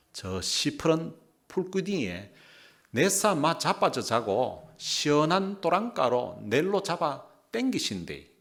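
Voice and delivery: Gyeongsang dialect scripture reading. Shown as a demonstration. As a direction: read the verse in Gyeongsang dialect. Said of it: "경상도 버전을 한번 읽어드리겠습니다". (경상도 사투리로 성경 읽기)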